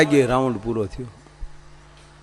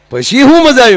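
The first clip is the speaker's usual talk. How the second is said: much higher, louder disbelieving question; incredulous retort; 9 semitones higher, 7 dB louder than usual. Acted. Teller challenging his friend's story, loud and incredulous. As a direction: fire back in loud disbelief.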